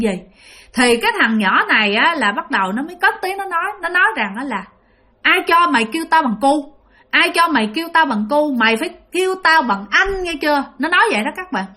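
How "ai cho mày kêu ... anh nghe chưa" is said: higher-pitched, mildly indignant demand; lightly voiced cheeky boy demanding respect; indignant ghost child. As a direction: put her in her place, pitched up. Angry ghost boy confronts the woman.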